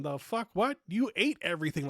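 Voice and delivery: can't believe he ate it all and complains; retelling an outburst at the uncle's complaint, disbelieving and loud; incredulous outburst. Retold or imitated. Retold outburst at table.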